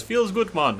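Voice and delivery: high-pitched imitation of a game character's accent; Witch Doctor. Gamer showing where the accent comes from, Witch Doctor impression. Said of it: "it's Witch Doctor from Dota two".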